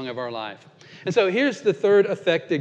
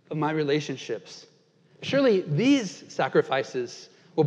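measured, rhythmic poem recital with pauses; poem reading. Acted. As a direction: reflective spoken-word reading. Reads a poem aloud.

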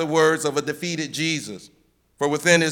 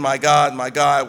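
louder, anguished cry to God; 4 dB louder than usual. Acted. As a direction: call it out with full force. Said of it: "but screamed loudly".

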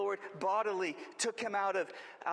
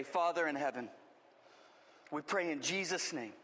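prayer. Acted. Pastor prays before the reading.

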